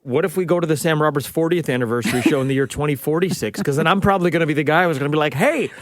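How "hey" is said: put-on high, grumpy old man telling someone off; old guy voice. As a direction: play a cranky senior scolding the crowd. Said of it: "my, my old guy voice".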